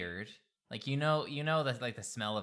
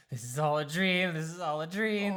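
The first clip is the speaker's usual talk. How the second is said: repeating it, rising higher each time; crazed mumbling; 4 semitones higher than usual. Acted. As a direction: mumble it like a madman. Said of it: "crazed, mumbling, like".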